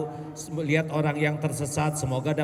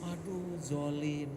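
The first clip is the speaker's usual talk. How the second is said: cat's complaint; 8 dB quieter, slower than usual. Pretend. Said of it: "kata kucing lah".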